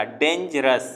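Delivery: डेंजरस said slowly with slight breaks; slight syllable breaks. Shown as a demonstration. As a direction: let the syllables of डेंजरस be felt. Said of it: "आ जाएगा".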